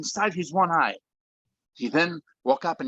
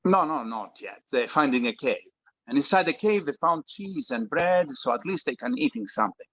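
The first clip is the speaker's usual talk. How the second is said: put-on Greek father, heavy Greek accent. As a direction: speak English with a thick Greek accent. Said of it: "speaks with a heavy Greek accent".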